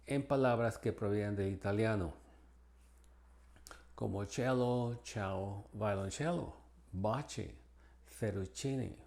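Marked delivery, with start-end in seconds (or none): 4.2-9.0 C said as CH in cello, ciao, baci; CH sound as in Italian loanwords. Shown as a demonstration. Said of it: "se pronuncia como C H". (C como CH italiana)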